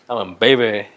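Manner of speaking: "baby" said in an exaggerated odd way. Shown as a demonstration. Speaker mocking own slip, "baby" oddly pronounced. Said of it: "didn't mean to say it like that".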